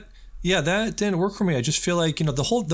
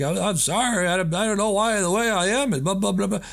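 mocking apology; 8 semitones higher than usual. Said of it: "And I'm like".

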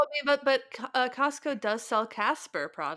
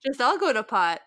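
hammed-up Minnesota fretting; Minnesota accent; 4 dB louder than usual. Minnesotan laments a household going to pot, Minnesota accent. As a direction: fuss in a broad Minnesota accent. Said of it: "insulting accent for Minnesotans".

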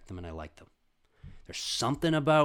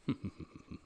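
villain chuckle; 8 dB quieter than usual. Acted. Jaguar boss's villain laugh.

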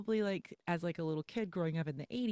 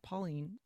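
"Pauline" stressed on the second syllable, paw-LEEN; Pauline, mistaken stress; 5 dB quieter than usual. Shown as a demonstration. Telling of a name just found out wrong, paw-LEEN. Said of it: "Emphasis on Pauline".

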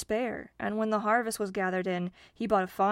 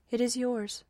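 lightly smiling, higher-pitched grant; 5 semitones higher than usual. A narrator's reading. Dame Fortune grants the farmer's wish, smiling. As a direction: grant it with a smile, voice lifted. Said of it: "smiling as she looked at him".

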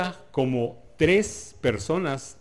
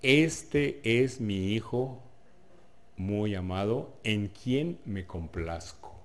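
slow solemn divine voice announcing his son; voice from heaven; 2 semitones lower, much slower than usual. Acted. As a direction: proclaim it slowly like God speaking from the heavens. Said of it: "se oye una voz que dice".

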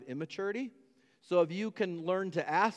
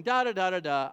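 mock oblivious; 5 dB louder than usual. Oblivious walker keeps going toward cliff.

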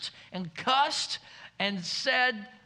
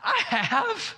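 confession; 13 semitones higher, 4 dB louder than usual. Real, not acted. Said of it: "Don't raise your hand".

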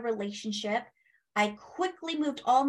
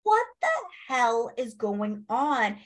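retold shocked outburst; slower than usual. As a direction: act out the jolt of seeing spirits, then drag the rest out in disbelief. Seeing spirits, thinks drugged.

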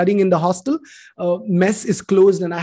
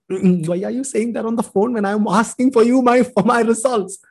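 higher-pitched, impatient retold protest; pitched-up, mildly indignant question; exasperated questioning; 4 semitones higher than usual. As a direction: act out an exasperated phone reply. Acted impatient reply on phone.

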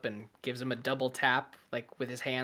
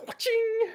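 imitated coin clink. Imitates coins thrown into boat.

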